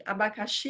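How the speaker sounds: Abacaxi with final XI lengthened; sing-song Abacaxi ending on a long XI; calling the word. Shown as a demonstration. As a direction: lightly call Abacaxi, rising and lingering on XI. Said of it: "vamos chamar o abacaxi".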